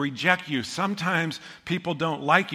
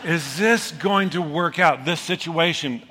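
half-laughing, pushy plea to God; laughing mock plea; 3 semitones higher than usual. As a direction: nudge God like he misheard, laughing. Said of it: "And I went".

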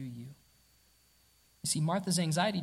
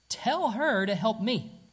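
slow, higher, louder command; demanding order; 4 semitones higher, 4 dB louder, slower than usual. Retold or imitated. Preacher voices Martha demanding of Jesus, slow and insistent. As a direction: bark it out as a demand. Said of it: "and demanding".

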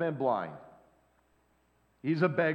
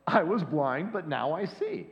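"was" rising, then "but now I see" settled; preacher driving the point home; simple, emphatic. Shown as a demonstration. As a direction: lean on "was" in "I was blind". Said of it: "Let's keep it real simple".

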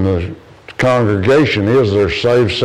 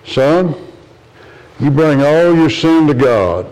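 earnest counsel; 5 semitones higher than usual. Retold or imitated. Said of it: "Here's what John R. Rice said".

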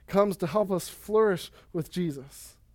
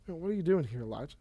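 soft whisper-like voice; 6 dB quieter, much faster than usual. Retold or imitated. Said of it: "the sound of a low whisper".

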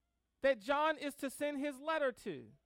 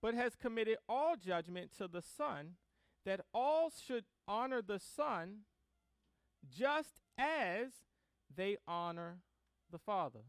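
measured Bible reading with deliberate pauses; scripture reading; 3 semitones lower than usual. Acted. Preacher reads the Gospel to the congregation, measured scripture reading. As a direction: read the verse out, phrase by phrase.

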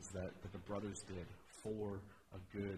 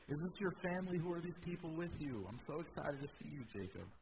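high, eager and overjoyed; bursting to see his brother again; excited greeting; 6 semitones higher than usual. Acted. Esau greeting his long lost brother Jacob, excited and high.

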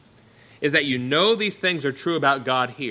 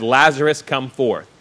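commanding call; 8 dB louder than usual. Acted. Jesus calls Lazarus from grave.

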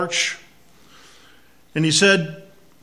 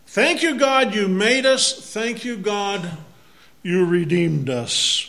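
joyful thanks; 4 semitones higher, 4 dB louder than usual. Retold or imitated.

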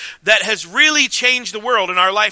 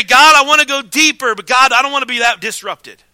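eager prayer; 3 semitones higher, 6 dB louder than usual. Retold or imitated. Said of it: "We say".

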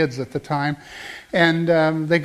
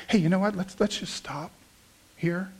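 soft, calm and assured suggestion; gently steer them to a halt; calm confidence; 6 dB quieter than usual. Acted. Believer warning the people around him, calmly confident. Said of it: "in calm confidence say to the people around us".

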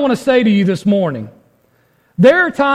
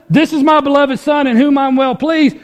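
higher, fervent quoting of God's words; raised preaching voice; 5 semitones higher than usual. Shown as a demonstration. Preacher quoting God to the congregation, raised and fervent. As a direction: lift it up as a preacher's quote. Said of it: "where's the emphasis".

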